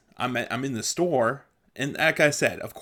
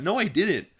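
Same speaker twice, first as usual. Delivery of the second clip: higher-pitched, half-joking indignation; upset denial; 7 semitones higher than usual. Real, not acted. Still protesting an old accusation from friends, mock upset. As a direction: insist you are wrongly accused. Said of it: "I still get upset about that".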